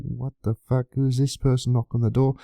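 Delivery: a confused stranger at the door, taken aback; startled stranger. Retold or imitated.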